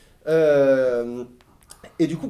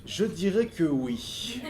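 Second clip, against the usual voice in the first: very slow, drawn-out words; hesitant answer; 3 dB quieter, much slower than usual. Real, not acted. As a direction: weigh the answer slowly as you give it. Hesitant answer, then said normally. (réponse hésitante, très lente)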